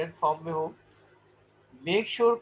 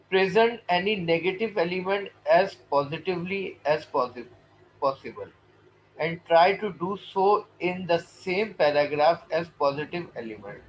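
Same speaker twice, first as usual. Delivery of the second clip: slow, measured English read-aloud; formal slide reading; much slower than usual. Acted. Teacher reading a guideline to students, slow formal reading. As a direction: read the point out slowly and deliberately.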